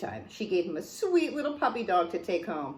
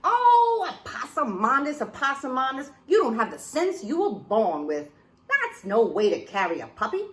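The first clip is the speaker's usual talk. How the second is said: scolding mama. Acted. Mama lectures child.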